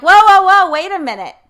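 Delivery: high, loud mock alarm; startled whoa. Coach mimics the guest being called out, high startled cry. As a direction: jolt up like you've been caught out. Mocking listener's startled reaction.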